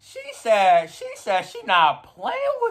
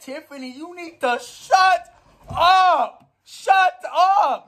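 mock scolding; 10 semitones higher, much slower than usual. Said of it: "She said".

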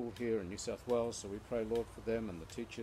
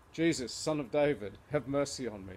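retold cry, raised at the start; calling out; 2 semitones higher, 4 dB louder than usual. Blind Bartimaeus hears it's Jesus, retold calling out.

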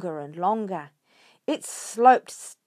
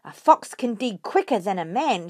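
shouting; 6 dB louder than usual. Acted. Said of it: "shouted Mister Fox".

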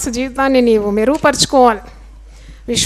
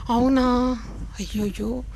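fearful gossip; 7 dB quieter than usual. Retold or imitated. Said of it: "అంటావా".

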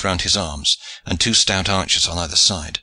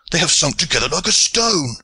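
a hint of Aylward's higher voice, dismayed; lightly voiced archer; 8 semitones higher than usual. A narrator's reading. Aylward at the rail reporting, lightly voiced. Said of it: "cried Aylward".

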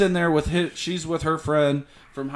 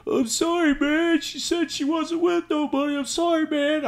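higher, lighter pleading voice; mock apologetic guy; 9 semitones higher, 3 dB quieter than usual. The other man apologizing to the boyfriend, higher sheepish voice. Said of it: "he's like".

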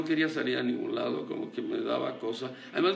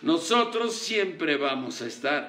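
mock war proclamation; 3 semitones higher, 4 dB louder than usual. Shown as a demonstration. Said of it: "dice una frase".

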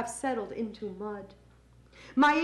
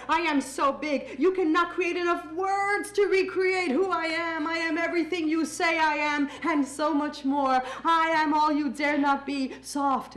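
defiant climax; 4 semitones higher than usual. Acted. Boastful climax of poem.

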